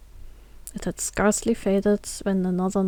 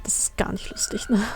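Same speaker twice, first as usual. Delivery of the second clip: whispered aside. Real, not acted. Flüsternd, halb zu sich selbst. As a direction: breathe it half to yourself. Streamer aside after gory joke.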